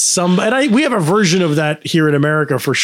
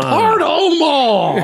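very high, stretched-out French parody; hammed-up French, sung out slow through a laugh; mock French; 12 semitones higher, much slower than usual. Host replays the Quebec man's apology, mock French.

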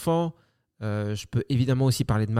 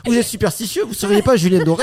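excited fan; 7 semitones higher, 7 dB louder than usual. Pretend. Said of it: "Les gens qui te reconnaissent".

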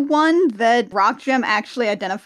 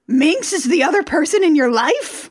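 higher, hammed-up astonished question; mock shocked disbelief; 4 semitones higher than usual. Jem confronts Rio about Minx, mock shocked. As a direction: pitch it up as a scandalized question. Recapper acts Jem's shocked discovery.

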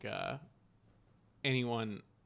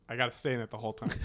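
fast words through laughter; laughing; much faster than usual. Real, not acted. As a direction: rush it out laughing. Laughing breaking character.

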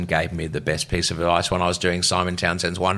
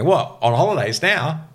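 shocked disbelief; 8 semitones higher than usual. Retold or imitated. Retold shock at being told to leave.

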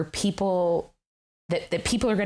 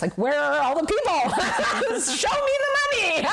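laughing exasperation. Retold or imitated. Retold plea, laughing through it.

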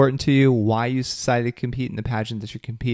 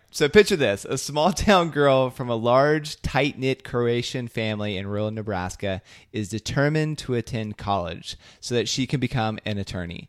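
breathless teasing blurb. Shown as a demonstration. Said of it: "I'm just doing the Stephen vibe".

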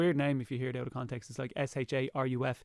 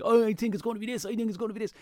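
high-pitched puppet voice; Rufus; 8 semitones higher, faster than usual. Retold or imitated. Re-enacting the puppet guessing at the box, high puppet voice. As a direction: play an eager monster puppet, pitched up. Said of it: "I had Rufus, my Blue Monster puppet friend".

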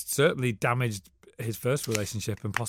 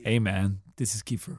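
Kiefer impression; 4 semitones lower than usual. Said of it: "phone call from Kiefer".

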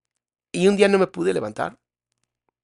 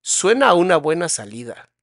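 tempting inner voice; 3 semitones higher, 4 dB louder than usual. Retold or imitated. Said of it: "en tu mente es como un".

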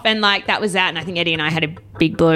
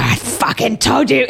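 slow, higher-pitched mock yell; retold screaming; 4 semitones higher, 3 dB louder, slower than usual. Girlfriend to boyfriend as car stops, mock screaming. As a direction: drag out the accusation, imitating a scream. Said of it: "I was screaming".

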